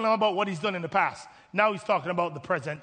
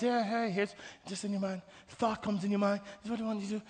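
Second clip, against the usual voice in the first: hushed, much softer prompting; imitated whisper; 8 dB quieter, faster than usual. God prompts a believer's mind, in a soft mock whisper. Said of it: "He whispers. He just kinda says".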